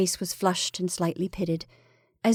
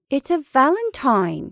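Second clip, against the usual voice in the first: higher, louder, drawn-out cry; excited cry; 6 semitones higher, 5 dB louder than usual. A narrator's reading. Wife answering her unsmiling husband, excited cry. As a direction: cry it out slowly and high. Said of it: "she cried".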